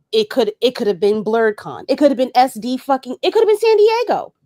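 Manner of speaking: indignant rant rising to a peak; building outrage. Real, not acted. Ranting, escalating about San Diego.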